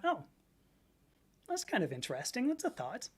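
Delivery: soft, mildly intrigued retold reaction; musing reaction. Speaker recalls people using Mix on her, musing softly. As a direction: voice it softly, as if considering it. Acting out own polite reaction.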